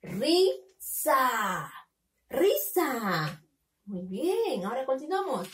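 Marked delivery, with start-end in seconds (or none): 0.0-1.7 RISA split into two drawn-out syllables, RI, pause, SA; teacher sounding out Risa in separate syllables. Shown as a demonstration. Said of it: "ahora tenemos que leer". 2.3-3.4 Risa read as one connected word; teacher reading Risa whole, syllables run together; syllables joined. Shown as a demonstration. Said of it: "Tenemos que unirlo".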